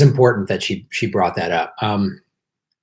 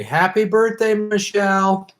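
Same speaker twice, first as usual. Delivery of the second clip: cheerful birthday wish; 6 semitones higher than usual. Real, not acted. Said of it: "please wish Michelle a happy birthday".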